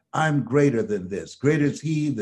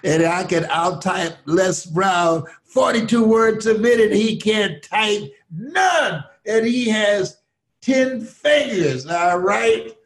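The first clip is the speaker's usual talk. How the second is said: louder and higher, laughing through a playful brag; laughing boast; 7 semitones higher, 5 dB louder than usual. Real, not acted. Les teasing host with laughing brag.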